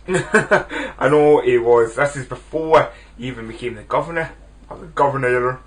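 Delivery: put-on a light, laughing stab at an Austrian accent; Arnold Schwarzenegger accent. Film fan jokingly imitating the star's Austrian accent. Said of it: "Sorry for that horrible, horrible accent".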